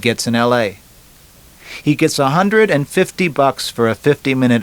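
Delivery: a slightly livelier, talkative joker; lightly voiced joker. Man pitching his chat to a woman at a bar, lightly voiced joker. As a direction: lightly play a man riffing on his own jokes. Narrator voices joking Bobby.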